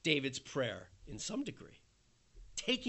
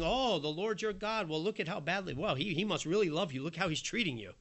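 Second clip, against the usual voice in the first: mocking taunt. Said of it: "many who are mocking him".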